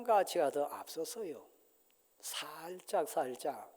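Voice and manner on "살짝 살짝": soft, dropped voice; hushed. Acted. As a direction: lower the voice as if creeping in. Describing creeping unbelief. (조용히 속삭이듯)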